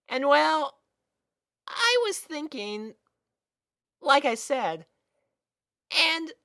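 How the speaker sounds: put-on bright kid voice, a bit nervous; high filly voice. A narrator's reading. Sweetie Belle explaining the gem to Spike, high and earnest.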